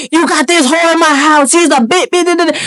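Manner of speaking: high, mock tirade of insults; retold name-calling. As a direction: imitate an angry woman cursing someone out. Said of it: "Calling me every name in the book".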